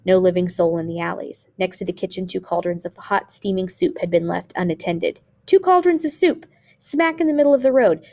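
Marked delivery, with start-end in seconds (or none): 5.5-8.0 high, louder exclamation; exclaiming in amazement. A narrator's reading. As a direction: marvel at it with raised voice. Narrator voices starving men's astonishment.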